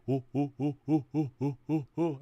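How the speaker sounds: light rhythmic hooting; hunters hooting. Acted. Early humans hooting as they chase the zebra. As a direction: hoot steadily like a chasing caveman. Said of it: "it would see us going".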